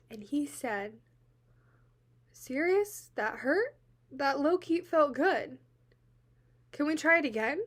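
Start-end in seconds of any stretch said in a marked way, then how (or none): 2.3-7.6 higher, louder imitation of him, questions lifting; eager questioning. He answers her saying it hurt, mock eager questioning. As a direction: mimic him, pushing brightly for another go. Retelling his reply to her pain.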